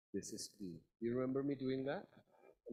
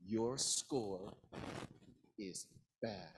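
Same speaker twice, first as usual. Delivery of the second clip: low, measured "Your score... is bad"; grave emphasis; 5 semitones lower, much slower than usual. Shown as a demonstration. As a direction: break the bad news in weighted phrases. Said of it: "Can you feel how bad your score is?".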